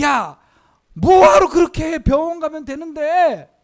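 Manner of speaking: loud, mocking, worldly-sounding jeer.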